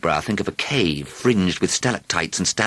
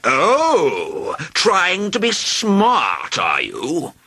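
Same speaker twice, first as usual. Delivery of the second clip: higher, slow, louder astonished dragon; astonished cry; 12 semitones higher, 4 dB louder, much slower than usual. A narrator's reading. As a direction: taunt him in surprise. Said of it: "cried the dragon, astonished".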